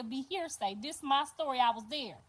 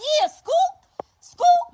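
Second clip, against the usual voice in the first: very high, loud rising Scoop; shouted gang call; 10 dB louder, much slower than usual. Retold or imitated. New father shouting the gang call with her. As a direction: throw it up and yell along. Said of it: "He like".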